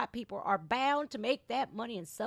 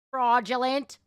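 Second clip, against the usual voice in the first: emphatic; 4 semitones higher, 10 dB louder than usual. Real, not acted. Mocking BLM as a sham.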